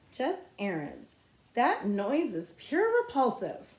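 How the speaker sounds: put-on slow, disdainful girl; prissy disdain. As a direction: look down on him. Snotty girl scolding Jess.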